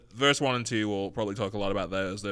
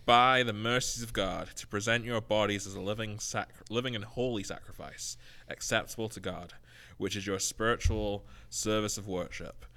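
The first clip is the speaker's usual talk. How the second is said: scripture reading. Acted. Reads Romans twelve aloud.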